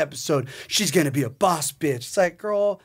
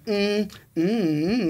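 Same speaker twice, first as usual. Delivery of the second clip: mocking dismissive hum; 4 semitones higher, much slower than usual. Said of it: "whatever dumb face she gave".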